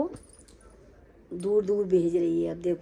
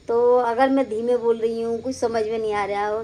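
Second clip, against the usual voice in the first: louder voice for the viewers; speaking loudly; 4 semitones higher, 6 dB louder than usual. Real, not acted. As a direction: push the volume up so everyone hears. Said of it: "आवाज़ खूब तेज़ बोल रही हूँ".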